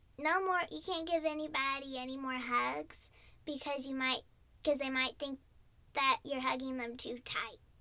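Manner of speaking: ordinary talk, nothing marked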